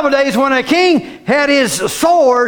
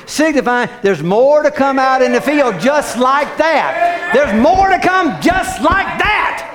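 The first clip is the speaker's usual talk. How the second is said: preaching shout. Real, not acted. Preacher builds to a climax.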